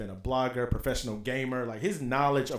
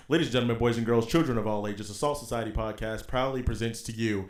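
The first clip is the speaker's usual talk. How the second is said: ringmaster style grand introduction; radio announcer voice; 6 dB louder than usual. Shown as a demonstration. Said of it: "This is my official, like, radio".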